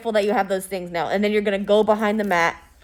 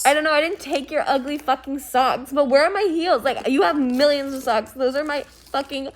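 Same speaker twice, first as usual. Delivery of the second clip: bitchy snapping; 4 semitones higher than usual. Acted. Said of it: "we're gonna get into a fight".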